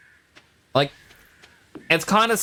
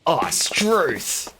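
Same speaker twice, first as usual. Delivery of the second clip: higher, hammed-up Australian accent; Aussie exclamation; 5 semitones higher than usual. Streamer adding an Aussie sound bite, broad Australian accent. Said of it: "Aussie sound bites I could say".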